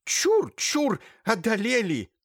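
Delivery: high, loud frantic shriek; a holy fool yelling at a woman, spitting. Acted. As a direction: scream it out, warding off demons. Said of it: "заорала".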